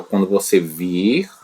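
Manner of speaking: quando você vir, slowly, vir rising; slow model phrase. Shown as a demonstration. Teacher drilling the subjunctive, slow with a rise. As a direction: model vir clearly for the class. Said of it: "O verbo ver".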